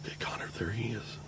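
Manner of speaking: breathy hunting whisper; wildlife watching whisper. Real, not acted. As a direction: keep it hushed, prey nearby. Hunters whispering in blind.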